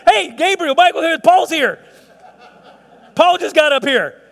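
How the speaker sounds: high, loud, slow, laughing announcement; Jesus. Pretend. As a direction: call the angels over with glee. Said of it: "do you wanna hear Jesus say".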